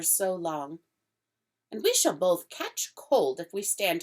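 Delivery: grand, inviting faun voice; the faun charming Lucy with grand words; fawn's voice, politely coaxing; courtly fawn. Acted. Fawn voice held.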